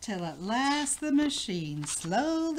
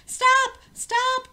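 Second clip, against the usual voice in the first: very high, loud shrieked stop; frantic cry; 9 dB louder than usual. A narrator's reading. Queen cries out as the machine wrecks the hall, shrieking. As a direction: shriek it as everything flies. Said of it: "cried the queen".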